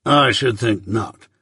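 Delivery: measured, stern lawyer, lightly voiced; Jaggers.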